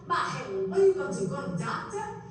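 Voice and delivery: high, fast, dismissive Sicilian relative; family member. Retold or imitated. Relative brushing off someone's ache, fast and dismissive. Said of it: "they're like".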